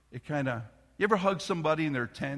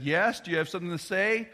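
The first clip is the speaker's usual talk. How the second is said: stern father; 5 semitones higher, 5 dB louder than usual. Retold or imitated. Father confronting peeking child.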